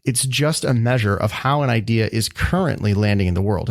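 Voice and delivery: "currently" given deliberate weight; stress on currently. Real, not acted. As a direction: lean on the word "currently". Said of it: "I emphasize the word currently".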